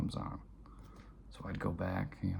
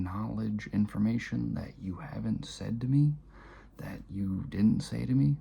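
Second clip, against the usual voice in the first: building desperate protest; 2 semitones higher, 6 dB louder than usual. Retold or imitated. Son pouring out his fear of being beaten to his father, building louder. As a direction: pile on the questions, voice rising in frustration.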